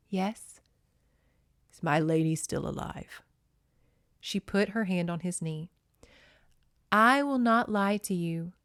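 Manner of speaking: a lightly voiced novel reading; story narration. A narrator's reading. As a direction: read it like an audiobook. Narrated novel dialogue read.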